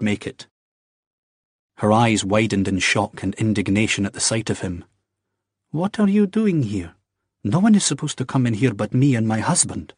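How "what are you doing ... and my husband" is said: a high, startled woman's voice, indignant; startled young wife. Acted. Young wife to intruding Jamie, indignant and startled. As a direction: caught off guard and outraged. Rebecca, caught off guard by Jamie.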